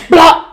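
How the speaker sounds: loud burst of a gross noise; imitated bathroom noise. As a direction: mimic the loud sound from the bathroom. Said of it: "something go".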